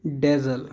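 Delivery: buzzing z in the middle of डेजल; careful pronunciation. Shown as a demonstration. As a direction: say डेजल with a clear z sound. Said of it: "pronunciation पे ध्यान दीजिए".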